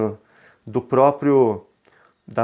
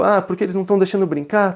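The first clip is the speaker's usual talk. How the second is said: lightly voiced child complaint, higher and quick; imitating upset young son; 6 semitones higher, much faster than usual. Son explaining to parent why he's upset, lightly mimicked complaint. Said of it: "Aí ele falou".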